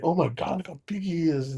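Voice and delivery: soft, awed hush; hushed awe. Retold or imitated. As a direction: breathe it out in amazement. Awestruck at huge ballplayer.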